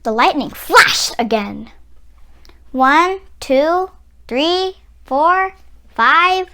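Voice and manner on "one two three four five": tense counting. A narrator's reading. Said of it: "I counted".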